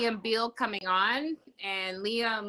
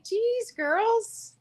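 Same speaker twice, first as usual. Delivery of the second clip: mock exasperated voice. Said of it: "it's like".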